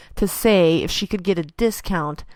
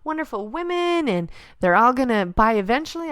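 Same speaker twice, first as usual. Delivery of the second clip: much higher, bright and bubbly; forced cheer; 6 semitones higher than usual. Retold or imitated. Reassuring her husband, brightly upbeat. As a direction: sound sure it will work out.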